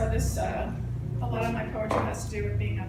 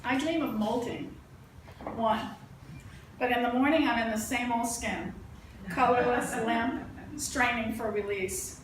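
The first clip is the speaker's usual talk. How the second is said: deliberate recital with spaced-out phrases; poetry reading. Acted. Poet reading a poem about molting, measured recital. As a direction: set each line apart with a pause. Reads own poem aloud.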